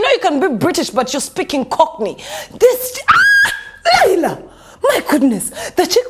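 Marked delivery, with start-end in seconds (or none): 2.6-3.5 very high, mock-exasperated squeal; exasperated cry. Host fed up with the singer, exasperated high squeal.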